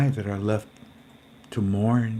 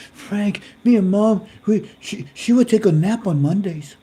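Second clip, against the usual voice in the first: imitating the caller; 9 semitones higher, 5 dB louder than usual. Voices Katarina retelling mom's habit.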